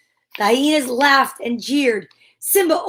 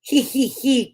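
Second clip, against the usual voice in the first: hyena cackle. Acted. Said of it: "crackled three mean hyenas".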